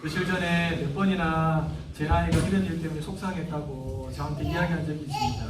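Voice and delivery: humbly polite to the teacher. Shown as a demonstration. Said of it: "이렇게 정중하게 말하는 거예요".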